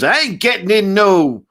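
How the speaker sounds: high, loud Mr T impression. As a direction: bark it like Mr T. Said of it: "Mister T goes".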